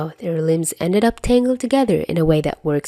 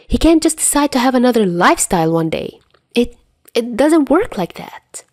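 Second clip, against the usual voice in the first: flustered insisting; 6 semitones higher than usual. Acted. Dazai flustered argument.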